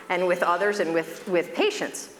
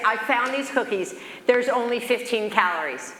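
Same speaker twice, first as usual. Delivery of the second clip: excited; 4 semitones higher than usual. Retold or imitated. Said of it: "he's so excited".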